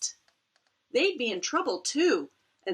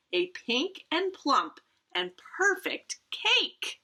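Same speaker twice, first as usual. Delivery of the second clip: excited; 10 semitones higher than usual. A narrator's reading. Reveal of the cake.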